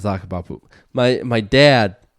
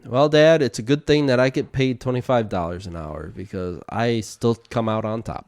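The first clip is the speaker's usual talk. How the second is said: deadpan. Retold or imitated. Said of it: "I just deadpan looked him in the face and went".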